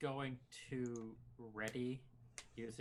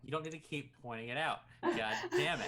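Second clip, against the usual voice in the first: laughing, fed-up in-character groan; mock exasperation; 3 semitones higher, 8 dB louder than usual. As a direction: play it exasperated and half laughing. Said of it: "He's just R Ping".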